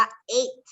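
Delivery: "ate" said just like the number eight; pronounced like eight. Shown as a demonstration. Teacher models the irregular past of eat, "ate" pronounced like eight. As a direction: say "ate" to sound like English "eight". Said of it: "Se pronuncia como ocho".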